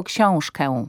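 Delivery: „książkę” z przesadnie nosowym „eł” na końcu; przeciągnij nosowe ę w „książkę”; hiperpoprawne ę. Shown as a demonstration. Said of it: "bo to jest błąd". (błędne „książkę” z przesadzonym ę)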